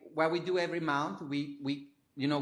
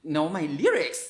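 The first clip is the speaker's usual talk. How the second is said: retold amazement; 3 semitones higher, 4 dB louder than usual. Singer recalling Russian fans singing along, amazed. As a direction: marvel at it, voice lifted.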